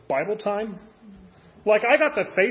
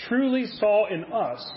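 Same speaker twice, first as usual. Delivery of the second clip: "truly" drawn out slowly with emphasis; stress on truly; slower than usual. Real, not acted. Preacher wondering what God saw in us, stressing "truly". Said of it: "I emphasize that word truly".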